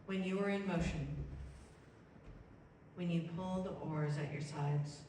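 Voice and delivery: slow verse with long pauses between lines; unhurried, spacious poetry recital; slow poem reading. Acted. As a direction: read it slowly, letting each line settle. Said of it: "I'm gonna read it slow".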